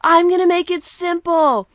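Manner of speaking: high, very loud wrestling promo shout; Psycho Sid impression. Wrestler shouting at his backstage interviewer, imitated promo rant. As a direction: belt it out like a ranting wrestler. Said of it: "Sid's like".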